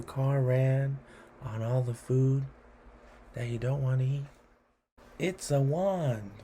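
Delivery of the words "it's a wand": lively storytelling read-aloud; poem reading. A narrator's reading. Host reading a wand poem to kids, lively. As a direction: tell it like a cheeky story.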